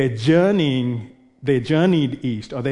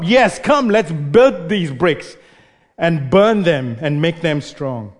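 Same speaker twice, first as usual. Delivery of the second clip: pumped-up rallying cry; slower than usual. Acted. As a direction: rouse the crowd to make bricks. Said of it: "you can almost hear them beating their chests and pumping themselves up".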